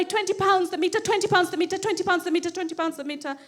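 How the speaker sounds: retold mild panic; anxious repetition. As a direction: fret over it in a rapid-fire chant. Eyeing the meter anxiously, repeating.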